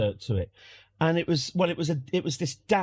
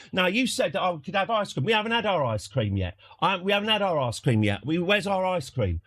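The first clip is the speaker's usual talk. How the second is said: mock indignant whining, pitched up; performative grievance; 5 semitones higher than usual. Dad complaining about missing ice cream to dodge the bill, aggrieved. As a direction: protest like a customer wriggling out of paying. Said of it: "This is performative".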